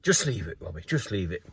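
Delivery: softly telling himself to let it go; quiet self-talk. Retold or imitated. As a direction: murmur it to calm yourself down. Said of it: "So I thought".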